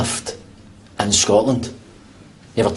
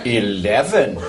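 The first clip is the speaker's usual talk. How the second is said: drawn-out put-on English accent; attempted English accent; 3 semitones lower, much slower than usual. Man outdoing his friend for the lift, affected English accent. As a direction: show off your English accent. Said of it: "Try an English accent, right?".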